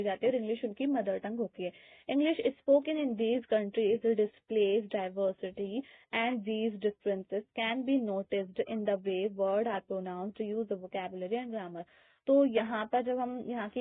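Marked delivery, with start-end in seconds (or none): 2.1-11.8 reading aloud. Acted. Reads English textbook lines aloud.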